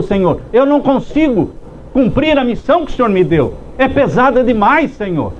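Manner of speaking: acted plea, rising in pitch as it goes; pleading for mercy. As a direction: pour out the soul to God. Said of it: "Moisés estava clamando pela misericórdia de Deus".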